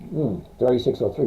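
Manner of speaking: words through a yawn; yawning mid-sentence, tired. Real, not acted. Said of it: "Wow, I'm yawning".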